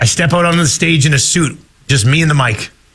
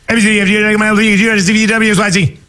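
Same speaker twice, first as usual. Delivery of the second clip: fast alphabet; 3 semitones higher, much faster than usual. Shown as a demonstration. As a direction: rattle it off at top speed. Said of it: "fastest alphabet of all time".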